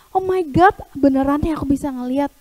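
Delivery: loud, thrilled disbelief; joyful amazement. Acted. Healed man realises he can see, loudly overjoyed. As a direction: burst out in happy astonishment. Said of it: "Dia benar-benar merasa sukacita".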